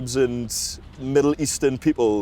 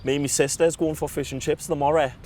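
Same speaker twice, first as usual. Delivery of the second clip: put-on Mackem accent; 3 dB quieter than usual. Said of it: "And if it was a Mackham".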